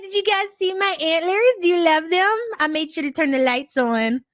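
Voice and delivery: retold eager mom. Mom greeting son and girlfriend about antlers, retold eager chirp. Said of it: "I'm like".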